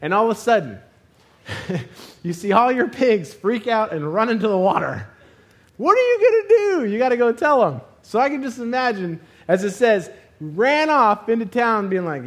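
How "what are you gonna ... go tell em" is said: much higher and louder frantic cry; panicked shout. Retold or imitated. Swineherd panicking after his pigs drown, frantic shout. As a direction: yell it in a panic.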